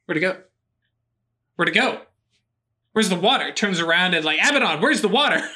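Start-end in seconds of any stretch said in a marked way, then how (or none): 0.0-3.5 lightly voiced dopey man, grinning; dopey happy grin. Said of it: "big, happy, dopey grin". 4.4-5.5 excited call. Acted. Dazed man calls to Abaddon.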